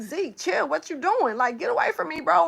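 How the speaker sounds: mild scolding. Retold or imitated. Owner telling Zeke to back off, mild scolding. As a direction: shoo him away without yelling. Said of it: "I ain't even raising my voice like that".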